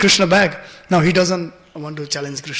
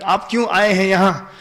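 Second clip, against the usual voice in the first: polite Hindi question in an even voice; respectful. Shown as a demonstration. Showing how Krishna should address elderly gopis, respectfully. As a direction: ask courteously, keeping the voice restrained. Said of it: "with respect, Krishna is supposed to say like that".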